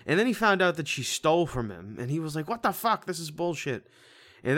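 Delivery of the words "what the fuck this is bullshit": higher-pitched indignant retelling; mock outrage. Retelling the movie hero finding out she stole, mock outrage. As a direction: play up the hero's disbelief.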